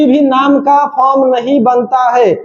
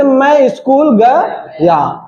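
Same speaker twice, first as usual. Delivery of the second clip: slow example sentence; much slower than usual. Shown as a demonstration. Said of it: "गया में कई चीज आ सकता है".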